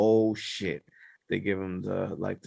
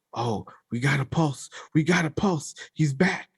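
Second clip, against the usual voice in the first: retold excitement; 3 semitones higher than usual. EMT tells the crew the patient is back, imitated excitement. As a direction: act out a medic's relieved discovery. Retelling EMTs finding a pulse.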